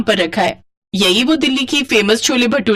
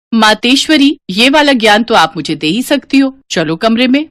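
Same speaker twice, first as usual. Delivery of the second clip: cheeky daughter; 2 semitones higher, 3 dB louder than usual. Acted. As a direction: tease mom about the price. Daughter mock-reverent.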